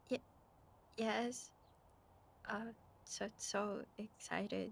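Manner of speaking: stumbling, flat, halting, unenthusiastic tone. Answering another speaker who asks if they are excited: unenthusiastic. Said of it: "Why do you not sound so enthusiastic?".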